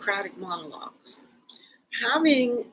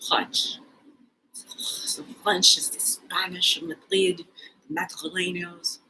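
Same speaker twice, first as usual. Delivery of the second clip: whisper; 4 semitones lower, 4 dB quieter than usual. Real, not acted. Whispered playful accent musing.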